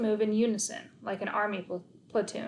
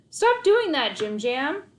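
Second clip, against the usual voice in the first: high, loud pleading; exasperated plea; 6 semitones higher, 6 dB louder, slower than usual. Acted. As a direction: beg the dog to stop. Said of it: "I pleaded".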